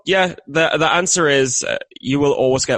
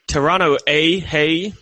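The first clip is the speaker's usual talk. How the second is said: hammy put-on Canadian accent; 3 semitones higher, much slower than usual. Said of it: "Your Canadian accent is almost as bad".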